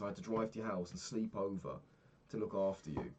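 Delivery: ordinary talk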